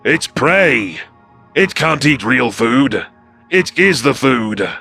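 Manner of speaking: outraged creature. Acted. Lieutenant objects to feeding prey, outraged. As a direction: spit it out slowly, word by word. Kaisel outraged at rodent eating meat.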